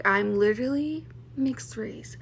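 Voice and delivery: slow, whispered, worn-out insistence; tired whisper. Retold or imitated. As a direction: whisper it like you're fed up. Quoted reply to pushy classmates.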